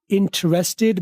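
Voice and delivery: interested in British English with the first t said clearly; interested said slowly with a British t; British pronunciation. Shown as a demonstration. Teacher showing the British interested. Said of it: "British".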